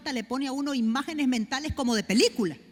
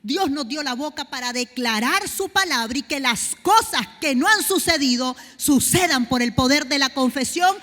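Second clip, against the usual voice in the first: loud, rising sermon cry; full-force preaching; 7 dB louder than usual. Acted. Preacher to the congregation, full-force preaching. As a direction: build the sermon up to a shout.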